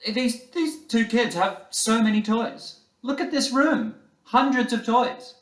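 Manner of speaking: put-on a child's teary plea for the flute; tearful child. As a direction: plead like a small boy choking back tears. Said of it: "David says through tears".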